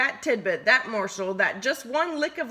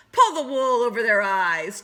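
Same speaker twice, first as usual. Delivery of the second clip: chortling; 5 dB louder than usual. Acted. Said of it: "chortled Wally".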